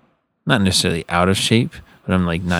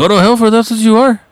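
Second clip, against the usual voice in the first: imitated mad uncle; 5 dB louder than usual. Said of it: "whenever he gets mad".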